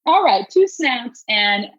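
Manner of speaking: deliberate reality-diva sass; Housewives of Atlanta. Acted. Friend voices the shushed wife, sassy. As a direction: put him in his place like a TV housewife. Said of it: "Housewives of Atlanta real quick".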